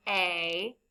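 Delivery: A as a long "ay"; long vowel sound. Shown as a demonstration. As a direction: say A as a drawn-out "ay". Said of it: "A makes a long sound".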